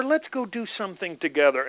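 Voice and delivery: quick, lightly voiced coaxing wife; a hint of a pleading wife; wife impersonation. Wife suggesting time together, lightly acted coaxing. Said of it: "That was a great impersonation".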